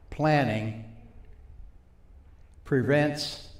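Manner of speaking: each word set apart by long pauses; slow, word by word. Shown as a demonstration. Teacher dictating the seven Ps to note-takers, very slowly. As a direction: say it slowly, one separate word at a time. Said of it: "I'll say it for you slowly".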